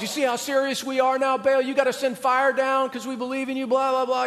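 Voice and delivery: a hint of frantic worshippers; mock pleading prophets. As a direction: play the desperate prophets, half-joking.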